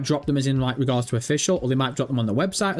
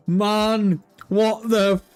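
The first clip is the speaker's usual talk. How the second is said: high laugh, slow stunned words; disbelieving laughter; 6 semitones higher, much slower than usual. Real, not acted. Streamer reacting to chat, laughing in disbelief. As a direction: laugh it off in shock.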